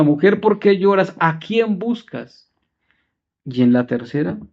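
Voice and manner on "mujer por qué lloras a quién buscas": second, more pressing asking. Retold or imitated. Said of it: "La segunda".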